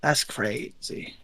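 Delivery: slow motion voice. Acted. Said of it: "talking in slow motion like the penguin".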